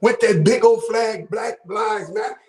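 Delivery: half-shouted street warning to a stranger; a brother warning a man off the block; retold warning. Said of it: "He said".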